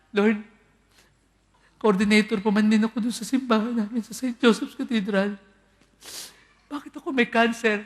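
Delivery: high, loud furious complaint to the Lord; angry at God. Retold or imitated. Cancer patient angrily shouting at God. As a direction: rage at heaven, voice up and loud. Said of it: "Galit po sa Diyos yan".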